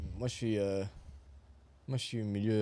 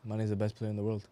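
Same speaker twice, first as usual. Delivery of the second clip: put-on Scouse accent. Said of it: "Just do the Mane".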